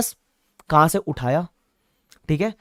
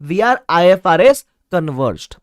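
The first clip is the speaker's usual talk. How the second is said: fond nickname, louder; 5 dB louder, much slower than usual. Shown as a demonstration. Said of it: "क्या बोलते हैं हम प्यार से?".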